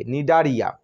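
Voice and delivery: নিডারিয়া starting on a plain n, no C sounded; silent C. Shown as a demonstration. Teacher closing the spelling, নিডারিয়া with silent C. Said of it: "সি এর উচ্চারণ হবে না".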